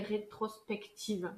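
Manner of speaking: "rétrospective" said slowly and softly, each syllable placed; careful slow word. Shown as a demonstration. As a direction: get "rétrospective" out carefully at last. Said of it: "C'était le mot que j'arrivais pas à dire".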